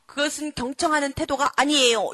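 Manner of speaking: mock little nagger correcting a parent; lightly acted child's telling-off; nagging child. Child correcting dad for not listening, nagging. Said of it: "이러면서 잔소리를 얼마나 잘하는지".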